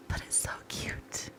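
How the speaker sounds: breathy whisper, soft and sad; wistful whisper. Real, not acted. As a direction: mourn it softly under your breath. Wistful whisper about the outfit.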